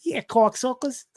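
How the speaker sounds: hammed-up impression, slow and high; Venom as Kayla. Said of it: "is that the Venom Kayla there?".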